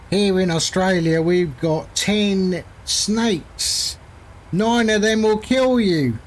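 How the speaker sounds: badly faked Australian accent, slow drawn-out delivery. Pilot joking about Australia's deadly snakes, bad Australian accent. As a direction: put on a poor Aussie accent. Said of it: "That's my Australian accent. Very bad".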